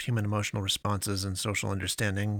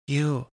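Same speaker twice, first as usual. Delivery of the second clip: You punched high and loud; stress on You; 4 semitones higher, 4 dB louder than usual. A narrator's reading. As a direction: hit You higher and louder. Pastoress repeats her plea.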